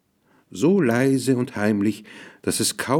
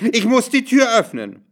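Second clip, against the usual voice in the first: sehr hoch und aufgelöst rufen; schreiend; 12 semitones higher, 4 dB louder than usual. A narrator's reading. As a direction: hysterisch aufgeregte Mutter. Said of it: "schrie sie". (außer sich aufschreien)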